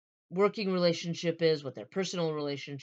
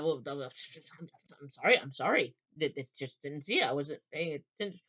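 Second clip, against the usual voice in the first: apologetic. Acted. Flustered man apologizing to the woman he ran into. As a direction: stumble through a hasty apology. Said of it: "he immediately goes on that".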